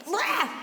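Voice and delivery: high-pitched blurted "blah"; sudden "blah" outburst. Real, not acted. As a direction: blurt out a nonsense yelp. Sudden comic outburst, then apologizes.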